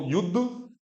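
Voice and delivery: युद्ध halted on a d without a vowel; vowelless half d. Shown as a demonstration. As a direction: stop युद्ध short on "yud". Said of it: "उसमें कोई स्वर नहीं है".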